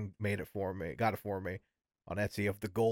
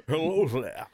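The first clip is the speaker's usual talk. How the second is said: mock movie line; 5 semitones higher, 3 dB louder, slower than usual. Echoing the Connery quote.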